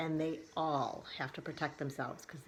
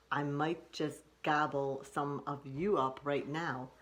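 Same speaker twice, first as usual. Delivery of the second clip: wolf voice. Acted. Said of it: "And the wolf says".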